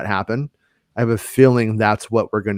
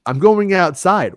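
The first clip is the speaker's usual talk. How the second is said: slow, higher-pitched reply; retold kid's answer; 8 semitones higher, 4 dB louder than usual. Kid telling parent he's going outside, slow retold reply. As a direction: answer slowly and high, lightly imitating a kid.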